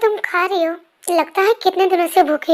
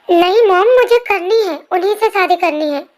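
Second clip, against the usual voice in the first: stubborn insistence. Acted. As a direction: dig in like a spoiled daughter. Daughter insists on marrying. (ज़िद्दी ऊँची आवाज़ में)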